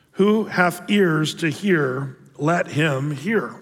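slow, measured Bible reading; solemn scripture reading from the pulpit. Acted. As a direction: read the King James verses with weight. Reads the scripture passage.

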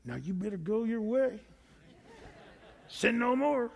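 mock threatening Jesus, a touch menacing; stern warning. Shown as a demonstration. Preacher mocks a stern Jesus warning the woman, threatening. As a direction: say it like a veiled threat. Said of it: "Did he say it like this?".

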